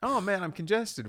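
high, nasal-ish complaint voice; mock whining. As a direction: whine about being stuffed up. Mocking allergy sufferer.

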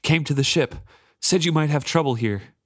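breathless, lightly gasped; out of breath. Acted. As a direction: say it winded from running. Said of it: "Sorkor is out of breath".

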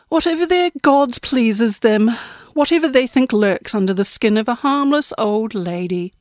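a sweet, falsely polite granny; prim old lady. Acted. Granny Death answers ominously.

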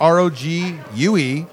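spelling it out slowly. Shown as a demonstration. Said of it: "people spell Rogue wrong".

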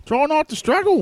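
high, taunting villain line; menacing character. Acted. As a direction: sneer at the struggling foe. Character threatens enemy.

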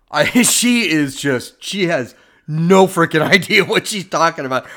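laughing in disbelief through the words; scoffing laugh. Real, not acted. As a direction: chuckle at how absurd she sounds. Host laughs mocking the woman.

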